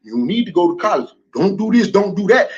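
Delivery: low mocking impression of advice-givers; mock lecturing voice. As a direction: put on a low preachy voice to mock them. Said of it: "black people today like to tell black people".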